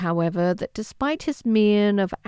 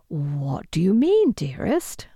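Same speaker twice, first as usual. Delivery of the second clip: hushed. Acted. Mother's soft worried question.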